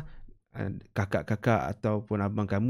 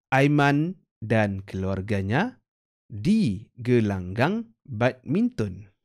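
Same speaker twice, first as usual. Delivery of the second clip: slow, clear read-aloud of an example sentence; model reading with intonation; slower than usual. Shown as a demonstration. Teacher reads an example sentence for pupils, slow and clear. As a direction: read it out slowly for pupils to copy. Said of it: "itu adalah contoh ayat-ayat dan intonasi yang sesuai".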